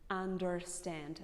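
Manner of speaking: slow "understand" with the R highlighted; "understand" as "underrr-stand"; American strong R. Shown as a demonstration. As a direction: lean on the R in "understand". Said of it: "prefer to highlight this R".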